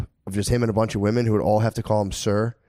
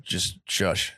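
soft, near-whispered hush; soothing shush; 6 semitones lower, 6 dB quieter than usual. Retold or imitated. Man showing how to calm an anxious partner, hushing. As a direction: hush someone while squeezing them. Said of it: "squeeze babes and be like".

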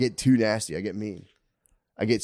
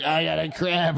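higher, put-on helpless voice; mock needy adult; 6 semitones higher than usual. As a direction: imitate a grown-up whining for the toilet. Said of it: "I just wake up and it's you".

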